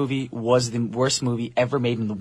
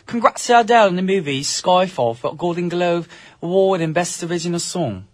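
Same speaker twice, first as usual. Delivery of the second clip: higher-pitched put-on British accent; 4 semitones higher than usual. Co-host reading a listener's tweet, put-on British accent. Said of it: "That's a pretty good accent".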